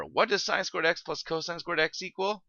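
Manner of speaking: bright, high cartoon-host question voice; lightly voiced kids' show host asking the audience; Dora the Explorer. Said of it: "I'm doing my best Dora the Explorer impression".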